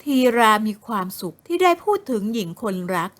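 usual speaking voice

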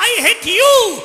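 put-on high, loud and slow, a child yelling in anger; angry child screaming at the forest, high and loud; angry child shouting. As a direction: scream it out at his mother, drawn out and furious. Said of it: "बच्चे ने चिल्लाकर कहा".

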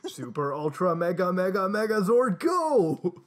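rising heroic battle cry; building battle cry. Acted. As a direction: build it to a shout. Heroes call out the transformation.

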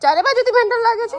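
loud, high questioning repeat; incredulous echo. Real, not acted. Mother repeating child's answer back, incredulous.

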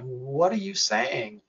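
drawn-out, mildly acted confusion; baffled. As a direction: imitate someone who can't make out the words. Confused loved one looking at you.

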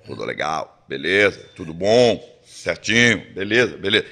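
a hint of the star checking the crew; Chico Anísio's voice. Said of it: "Aquele jeito daquela voz".

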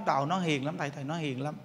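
hushed, sorry for her son; pleading mother. Retold or imitated. Mother praises gentle son. (bà mẹ kể khổ với thầy, giọng thấp và rất nhỏ)

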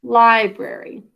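slow dictation. Shown as a demonstration. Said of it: "L-I, syllable break".

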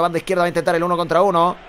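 la emoción crece hasta el córner; narración que sube. Real, not acted. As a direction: sube la voz con la jugada. Jugada peligrosa narrada en directo. (narración cada vez más emocionada)

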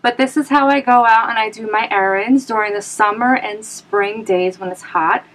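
talking through a face mask; muffled speech behind a mask. Real, not acted. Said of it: "I don't know if you guys could hear me".

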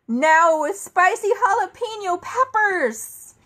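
high, loud, slow horrified reveal; horrified reading. Acted. Narrator reading the fine print in horror, high and loud. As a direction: read it out as the shocking twist.

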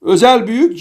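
Özel büyük held up, as in a tall-or-small game; "big" call. Shown as a demonstration. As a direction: keep Özel büyük up, like calling "giant". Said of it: "Deve cüce oynar gibi".

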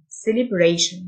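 "celebration" with the ending said "shan"; tion as "shan". Shown as a demonstration. Teacher showing students that "celebration" ends in a "shan" sound. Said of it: "التي آي أو إن تنطق شن".

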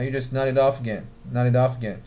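"nod it off again" run together as one word; linked speech. Shown as a demonstration. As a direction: link each final consonant onto the next vowel in "nod it off again". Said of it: "当然这个地方是有连读的".

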